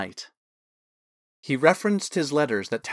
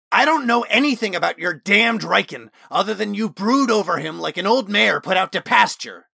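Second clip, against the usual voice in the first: loud, higher, contemptuous snarl; enraged retort; 8 semitones higher, 5 dB louder than usual. Acted. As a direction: spit it back in a storm of anger. Osmond enraged, after elbowing Talon.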